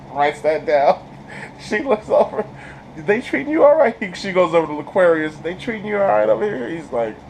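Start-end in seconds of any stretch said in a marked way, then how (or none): 3.0-6.7 a bit higher, concerned; lightly voiced concerned worker. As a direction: ask gently from above. Social worker asks kid.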